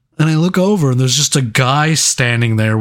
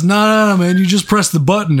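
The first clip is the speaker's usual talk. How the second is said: amused correction; 6 semitones higher than usual. Retold or imitated. Retold friend correcting.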